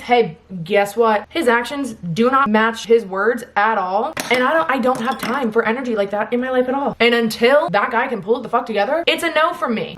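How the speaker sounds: loud, emphatic rant; real worked-up yelling. Real, not acted. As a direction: lay down the law at full volume. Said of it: "sorry I'm, like, yelling".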